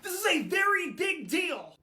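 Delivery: high-pitched, put-on British urgency; dramatic British accent. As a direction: press him in a theatrical British accent. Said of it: "it sounds more dramatic that way".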